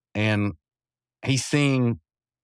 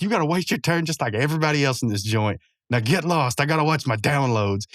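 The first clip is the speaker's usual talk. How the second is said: higher-pitched acted telling-off; berating; 4 semitones higher than usual. Muscle Man berating Mordecai out of the room, acted telling-off. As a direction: send him packing, mildly mock-gruff in attitude. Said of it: "he's just, like, berating him".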